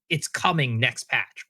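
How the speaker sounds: slow, drawn-out mock promise. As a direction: spell out the empty promise slowly. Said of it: "you don't have to say".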